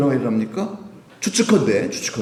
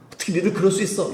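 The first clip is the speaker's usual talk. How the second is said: mock indignant cry; 8 semitones higher, faster than usual. Contrast: not this reaction.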